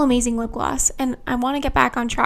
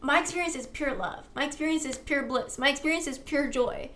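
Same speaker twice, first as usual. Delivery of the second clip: calm, even affirmation voice, a little softer; spoken affirmation; 4 dB quieter than usual. Acted. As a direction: declare each line as settled truth.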